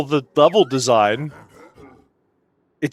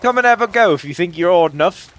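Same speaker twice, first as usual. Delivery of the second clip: put-on terrible British accent; 3 semitones higher than usual. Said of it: "I did a terrible job with the accent".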